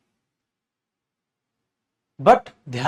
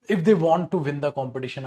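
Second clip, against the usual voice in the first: slow reading; 3 semitones lower, much slower than usual. Shown as a demonstration. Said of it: "teacher reads answer slowly".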